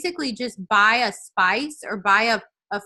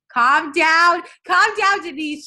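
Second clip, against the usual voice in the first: high, louder playful self-scolding; mock calm-down; 6 semitones higher, 5 dB louder, slower than usual. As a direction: rein yourself in, laughing at your own excitement. Telling herself to calm down.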